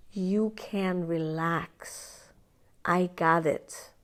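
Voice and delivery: calm, gentle, soothing; kind reassurance. Retold or imitated. Adult self soothing the inner child, gently. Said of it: "fed with kindness and love and care".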